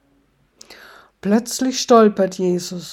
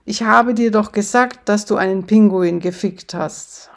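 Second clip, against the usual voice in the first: yelling; 4 dB louder than usual. Acted. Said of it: "schreit Satan".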